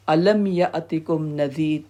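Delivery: slow, drawn-out Arabic recitation; keeper's recited question. Acted. Keeper of Hell addressing the damned, slow recitation. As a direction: recite the verse slowly, stretching the vowels. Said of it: "جہنم کا داروغہ کہے گا".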